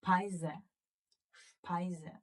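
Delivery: Speise with shp and ai, said twice; German Speise. Shown as a demonstration. Teacher reading the first board word for the class, model repetition. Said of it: "Can you read this for me".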